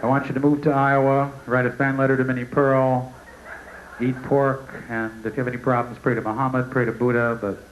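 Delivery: low, lightly voiced God; a hint of a booming deity dismissing him. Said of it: "God actually talks like that".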